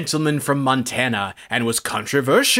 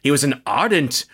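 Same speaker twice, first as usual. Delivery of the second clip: pompous senator oratory. Acted. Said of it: "I sound like the other senator in this movie right now".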